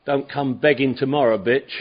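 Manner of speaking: a hint of a brash drunk; cocky eagle. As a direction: swagger it like a drunk bully. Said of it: "turn into an eagle".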